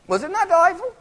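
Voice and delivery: enthusiastic praise. Real, not acted. Raving about the play.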